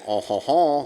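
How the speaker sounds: French nasal "on, hon, hon"; mock French nasal sounds. Shown as a demonstration. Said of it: "like you're French".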